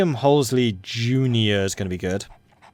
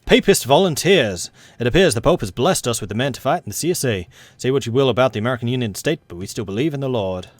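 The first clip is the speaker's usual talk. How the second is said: put-on southern accent. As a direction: read the news in a Southern American accent. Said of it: "twisting this southern accent".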